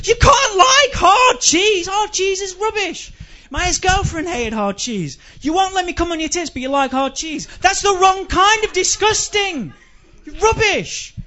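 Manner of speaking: high, loud, slow disgusted yell; outraged yell. Acted. At the flatmate who likes hard cheese, high outraged yell. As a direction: scream the outrage at them.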